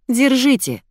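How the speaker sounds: bright call to everyone. A narrator's reading. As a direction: call out waving the package. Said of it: "выкрикнула Вика".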